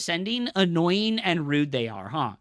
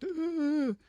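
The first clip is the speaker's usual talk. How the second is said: higher, lazy fed-up groan of a bored guy; mock groan; 8 semitones higher, 5 dB quieter than usual. Streamer mocking unemployed chatters, lazy groan. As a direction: mimic a bored slacker's grunt. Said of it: "they're just like".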